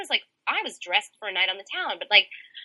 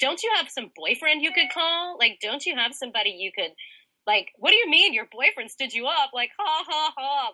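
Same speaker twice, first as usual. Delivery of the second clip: mocking police; 3 semitones higher than usual. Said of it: "they were laughing at me".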